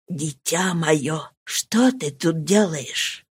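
slow, soft and low fatherly voice; gently, as to a child; tender. Acted. The count speaking tenderly to his daughter: soft and slow. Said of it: "сказал нежным голосом".

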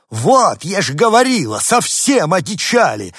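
startled ladies shouting; shrill scolding. Acted. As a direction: shout it in alarmed indignation.

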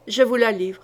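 a touch of grim resolve, repeated; understated growl, firm and steady; mild growl. Acted. Duke repeats to the queen, lightly growled. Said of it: "gronda-t-il".

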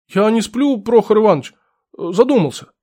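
startled clerk caught napping; flustered old clerk. Acted.

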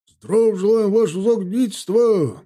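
loud, high-pitched soldiers' chant; shouted ceremonial response; thundering reply. A narrator's reading. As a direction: roar it back as one formation. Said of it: "громыхнул в ответ строй".

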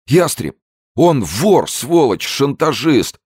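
very high, loud shrieking cry; the terrified businessman shrieks; squealing denial. A narrator's reading. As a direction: squeal it out in terror. Zeldin's frightened voice.

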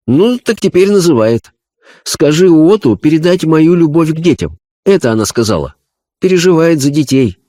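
high, earnest medium voice; a spirit medium describing a vision; seance medium. Acted. Medium relays love. (голос медиума на сеансе)

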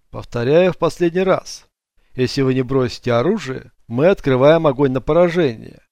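loud police ultimatum; megaphone warning. Acted. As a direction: call it out through a megaphone.

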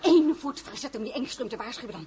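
half lachend, vlot gedreigd; lachend dreigen. Acted. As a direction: plaag de lakei met een grijns in je stem. Lachend dreigen tegen de lakei. (lachend dreigend tegen de lakei Fernand)

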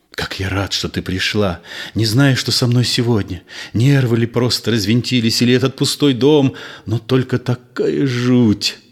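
ordinary delivery, nothing marked

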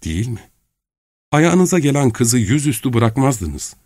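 put-on bewildered girl demanding answers; young woman Nastenka.

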